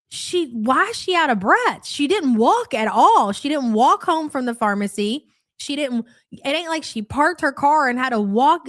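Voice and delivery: indignant disbelief. Retold or imitated. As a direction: mimic a friend's outraged question. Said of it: "And Sam goes".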